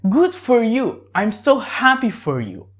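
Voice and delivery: really happy for them. Shown as a demonstration. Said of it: "you're really happy for that guy".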